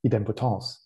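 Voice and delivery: idempotence with a French accent, stress on the last syllable. Shown as a demonstration. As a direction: say idempotence the French way, ending in "-tance". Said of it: "I'm just doing it with a French accent".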